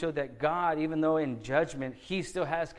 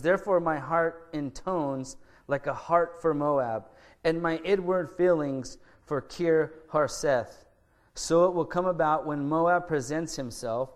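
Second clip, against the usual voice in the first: scripture reading; 3 dB louder than usual. Acted. Pastor reads Isaiah's prophecy to the congregation, solemn and measured. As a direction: read the verses out with weight to the congregation.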